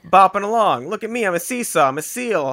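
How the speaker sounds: playful, bouncy animal voice; silly seal voice. Pretend. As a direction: voice a goofy seal bopping along.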